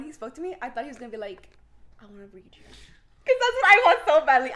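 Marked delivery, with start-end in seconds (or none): 2.0-2.6 hushed, lower mystic offer; imagined tarot reader. Acted. Imagined reader offering a tarot reading, hushed. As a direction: softly voice the reader's invitation.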